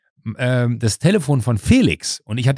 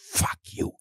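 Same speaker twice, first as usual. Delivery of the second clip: muttered curse; 8 semitones lower, 9 dB quieter, slower than usual. Retold or imitated. Seething thought in retold scene.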